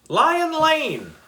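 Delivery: high, loud called answer; calling out. A narrator's reading. Trapped girl shouting up to the kids. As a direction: call up from the pit. Girl calls location from pit.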